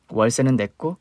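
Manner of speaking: ordinary talk, nothing marked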